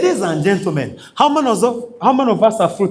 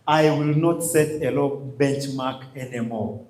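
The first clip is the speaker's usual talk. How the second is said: quiet pledge; 5 semitones lower, 6 dB quieter than usual. Shown as a demonstration. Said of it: "hit on our chests and tell ourselves".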